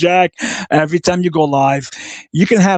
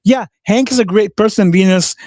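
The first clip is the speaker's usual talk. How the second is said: sarcastic agreement; 4 semitones higher than usual. Real, not acted. Sarcastic reply to Venus.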